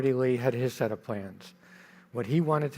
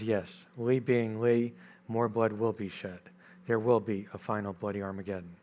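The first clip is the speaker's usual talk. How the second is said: mild sad reply; 2 semitones lower, 3 dB quieter than usual. Retold or imitated. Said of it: "shakes his head very sadly".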